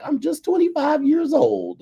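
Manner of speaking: very high, slow mock female voice; squeal-high drawn-out imitation of her; young woman. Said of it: "She was like".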